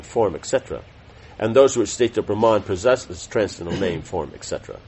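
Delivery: measured reading of a religious text; formal read-aloud. Real, not acted. Teacher reading scripture summary to class, formal read-aloud. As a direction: read it out clearly, phrase by phrase.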